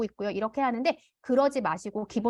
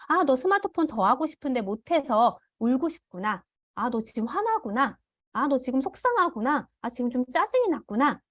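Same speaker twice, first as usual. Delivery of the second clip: empathetic. Shown as a demonstration. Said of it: "이렇게 감정 먼저 좀 읽어주는 거예요".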